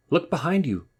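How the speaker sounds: high, loud urgent cry; gasped warning. Acted. Rabbit warning Wolf as he runs, gasping. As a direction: gasp it out in alarm. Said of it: "gasped Rabbit".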